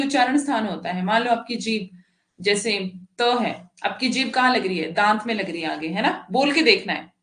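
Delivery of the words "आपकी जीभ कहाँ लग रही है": ordinary talk, nothing marked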